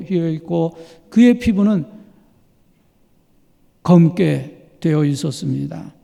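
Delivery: ordinary talk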